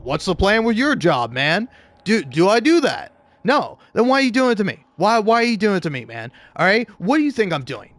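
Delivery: retold fed-up outburst at a manager; blowing up. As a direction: fire off indignant questions, moderately heated. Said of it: "I kind of blew up".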